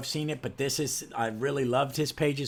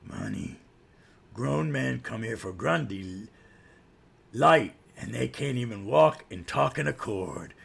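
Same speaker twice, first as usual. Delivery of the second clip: Grundy. Acted. Lurking villain mocking the squabbling heroes, theatrical taunting voice. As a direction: taunt them in an altered, theatrical voice. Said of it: "then you hear this voice".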